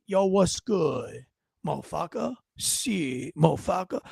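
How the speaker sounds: slow, low imitation of street talk; mock hood greeting. Host imagining recruits talking hood at recruiting, slow mocking. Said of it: "did they talk like this".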